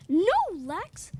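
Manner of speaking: urgent shout. Acted. Kids stop Lex.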